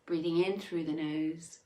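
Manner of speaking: unhurried meditation instructions with long pauses; guided meditation. Acted. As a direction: guide them gently through each breath. Leads breathing in meditation.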